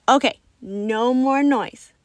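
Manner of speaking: out of breath. Acted. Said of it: "catching my breath".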